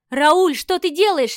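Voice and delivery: high, loud, slow cry of horror; wife crying out to her husband in horror; horrified cry. Acted. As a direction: shout to stop him in terror. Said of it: "вскричала я в ужасе".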